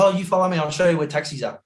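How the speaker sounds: lightly voiced tout, starting high; taxi tout. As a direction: imitate a helpful taxi tout. Retold taxi tout leading him.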